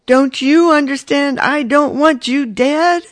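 high, loud wife arguing back; desperate retort. A narrator's reading. Quarrel, both voices raised.

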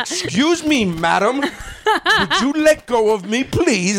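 mock polite plea. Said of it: "I was like".

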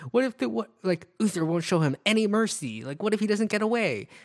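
mock panic. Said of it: "Gwen who's like panicking".

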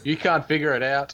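lightly mocking taunt, pitched a bit up. Podcaster playing the elites taunting the public, mocking. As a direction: tease as if they are clueless. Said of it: "like, a mocking gesture too".

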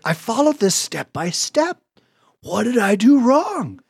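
retold frustration. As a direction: plead at the screen, slowing on the question. Retelling his frustrated search for mistake.

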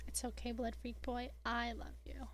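soft, fond consoling; mock-comfort him quietly and lovingly; hushed affectionate aside; tender reassurance. Consoles absent character Sam fondly.

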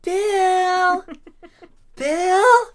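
high, loud call of "Bill". Pretend. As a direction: call Bill's name across a room. Calling the character's name.

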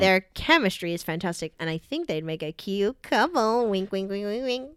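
hammed-up comic reading voice; playful character read with exaggerated swoops; funny voice. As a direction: read it out in a silly put-on voice. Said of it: "or just a funny voice".

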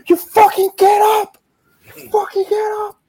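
playful mock roar of a wrestling trainer; retold yell. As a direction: bark it like a trainer slapping his fighter awake. Retelling trainer slapping wrestler, yelling.

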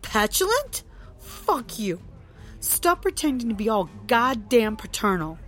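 sharp, high angry outburst; spat violently. Acted. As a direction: spit it at him. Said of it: "Trixie spat violently".

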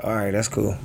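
calm, unbothered comeback; mild, casual acceptance; regular tone. Acted. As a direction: answer evenly, refusing to engage. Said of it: "You just talking in a regular tone".

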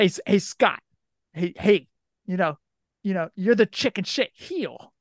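mild New York accent impression; lightly imitating a New Yorker. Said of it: "he had that New York accent".

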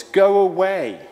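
high, loud demon's cry. Acted. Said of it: "He cried out at the top of his voice".

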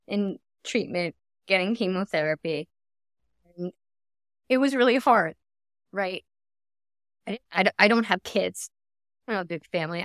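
halting, real emotion with long pauses; getting emotional. Real, not acted. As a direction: hold back tears while remembering, pausing often. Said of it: "excuse me if I get emotional".

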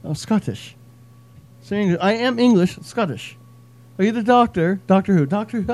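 light Scottish voice, bantering; playful Scottish Doctor Who skit; mock David Tennant. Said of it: "David Tennant".

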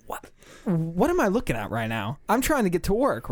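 acted-out exasperated inner voice; baffled disbelief. Driver facing a man in the street, baffled. Acting out his baffled thoughts.

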